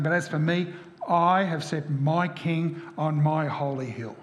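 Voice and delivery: slow, weighty stress on "I"; "I" hit firmly, each phrase slow and deliberate; emphatic. Acted. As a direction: land hard on "I" and stretch the declaration out. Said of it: "is emphatic".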